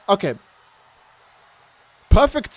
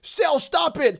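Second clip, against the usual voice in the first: mock feeble plea; 9 semitones higher, much slower than usual.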